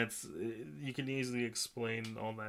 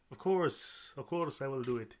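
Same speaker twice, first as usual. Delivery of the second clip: put-on a terrible Russian accent for laughs; bad Russian accent; slower than usual. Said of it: "this is my terrible Russian accent".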